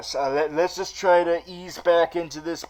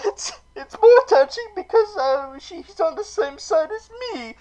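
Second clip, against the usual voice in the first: mock sob; 13 semitones higher than usual. Fake crying over Penguin's mother.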